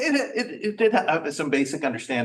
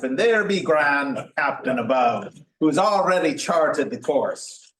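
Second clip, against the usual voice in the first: pirate voice; 2 semitones higher than usual. Retold or imitated. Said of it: "Explain predestination like a pirate".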